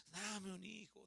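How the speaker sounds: put-on whispered-down plea for a child; soft pleading prayer. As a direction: beg quietly, like a private prayer. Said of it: "le pedía a Dios".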